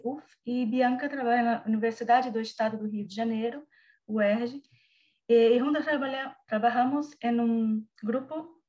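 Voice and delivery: Spanish with Brazilian Portuguese accent; portuñol, Portuguese-flavoured Spanish. Real, not acted. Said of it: "perdón por el portuñol que voy a hablar".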